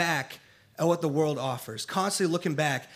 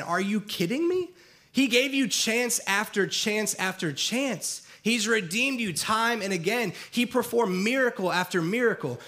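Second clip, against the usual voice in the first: mock incredulous scolding, pitched up at first; harsh criticism; 3 semitones higher than usual. Us judging the Israelites from today, mildly harsh criticism. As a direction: imitate a self-assured critic, mildly indignant. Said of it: "and really harshly criticize the Israelites".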